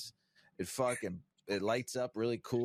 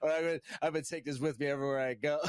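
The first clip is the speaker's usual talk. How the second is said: laughing shout; 4 semitones higher, 4 dB louder, faster than usual. Retold or imitated. Joking about carrying the rig.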